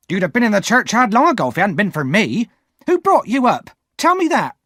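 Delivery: high, loud raging rebuke; furious berating. Acted. Sister berating Pip for ingratitude, furious. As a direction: tear into the boy.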